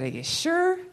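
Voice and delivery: lightly imitated Texas accent, voice jumping up at the end; questioning with a hint of Texas twang; Buddy. Host quotes Buddy's doubtful reply, light Texas accent. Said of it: "In kind of Buddy's Texas accent".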